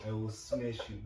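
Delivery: put-on low Russian-accented threat; Khabib. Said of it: "Russian accent".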